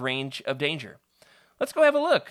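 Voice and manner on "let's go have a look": high, loud eager urging; eager kid. Acted. Peter urging his friend toward the battle, high and eager. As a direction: pull your friend along, keen. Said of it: "says Peter".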